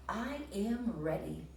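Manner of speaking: slow, steady; calmly ready to go; ready Frog. Acted. Teacher voicing Frog ready for the walk, slow.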